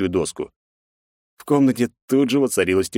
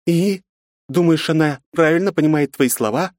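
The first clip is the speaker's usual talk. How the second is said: high woman's voice, indignant; a woman calling a father out; 10 semitones higher, 4 dB louder than usual. A narrator's reading. Aunt Yufi confronts Pavel, indignant.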